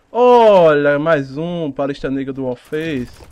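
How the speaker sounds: normal talking voice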